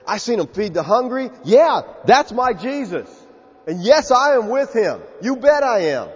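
proud declaration building in pitch and force; bold confession. Acted. A disciple owning up to following Jesus, boldly.

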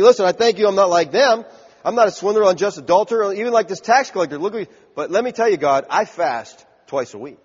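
self-satisfied bragging prayer; bragging Pharisee. Acted. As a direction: puff yourself up before God. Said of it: "he's just bragging on himself".

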